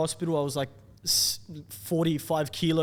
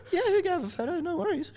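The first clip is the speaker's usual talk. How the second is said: higher, laughing through the words; can barely get it out for laughing. Retold or imitated. Retells reply laughing.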